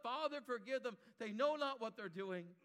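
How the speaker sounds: Jesus crying out from the cross for his killers. Acted. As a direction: lift it out as a plea. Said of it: "he cries out".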